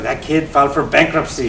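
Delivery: imitating an Indian uncle, lightly; a hint of Indian English accent; bad Indian accent. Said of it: "in a bad Indian accent".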